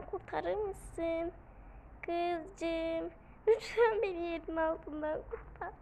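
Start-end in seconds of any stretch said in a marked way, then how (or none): 3.5-5.7 mock pleading. Begging to be rescued.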